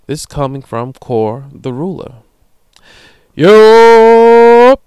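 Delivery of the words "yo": big high shout of yo; hyped-up yo read from the email; hyped greeting. Acted. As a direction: call it out like greeting a friend across the room. Reading listener email aloud, hyped.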